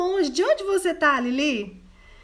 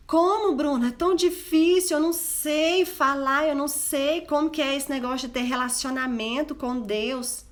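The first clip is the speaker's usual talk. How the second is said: raised, fretful voice of an unsure woman; mock doubtful listener; 4 semitones higher than usual. A woman in the audience protesting to Bruna, lightly voiced and worried. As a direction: play the hesitant listener who feels lost. Imagined listener objecting to speaker.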